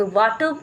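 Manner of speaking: वाटर as "vaa-tuh", final R dropped; wrong accent. Shown as a demonstration. Showing students wrong variants, wrong accent. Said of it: "this is also wrong accent".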